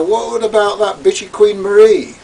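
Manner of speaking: a sharp dig with pure acid in it. Retold or imitated. Narrator needling Gary about Queen Marie, acidic and loud. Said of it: "Pure acid".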